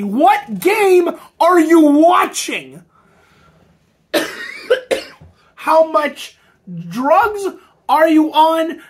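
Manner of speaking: loud exasperated yell. Real, not acted. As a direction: yell at the broadcasters. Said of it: "I am literally losing my voice screaming".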